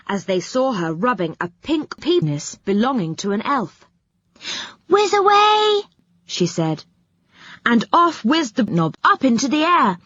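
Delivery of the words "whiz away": high, loud witchy cry; shrill-voiced witch, much higher; witch casting a spell. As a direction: fling the spell off like a cackling witch. Witch casts a flying spell.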